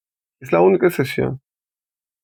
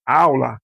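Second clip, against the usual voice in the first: "aula" with the stress on AU; stress on first syllable. Shown as a demonstration. Teacher showing learners the tonic syllable, "aula" stressed on AU. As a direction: say "aula" leaning on the opening AU. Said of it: "la primera sílaba es tónica".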